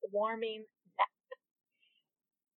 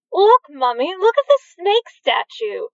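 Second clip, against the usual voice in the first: put-on high, eager little kid voice; excited child; 7 semitones higher, 5 dB louder than usual. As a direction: point and call out like a thrilled child.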